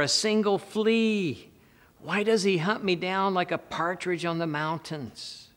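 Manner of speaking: high, forceful calling out in protest; David calling out. Acted. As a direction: plead loudly with a king from afar. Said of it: "David calls out to Saul".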